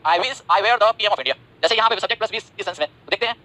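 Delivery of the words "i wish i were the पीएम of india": slow dictation. Shown as a demonstration. Teacher dictates example sentence slowly.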